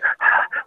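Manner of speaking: short, voiceless puff of breath; mock hyperventilating. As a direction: act out hyperventilating with a quick exhale. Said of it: "like, hyperventilating".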